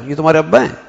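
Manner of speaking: mild warning, "ابا ہیں" pushed up at the end; admonishing. Shown as a demonstration. Warning a child who misbehaves, admonishing rise on "ابا ہیں". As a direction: warn with a rising "ابا ہیں". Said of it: "اس بچے کو تنبیہ کر رہا ہوں".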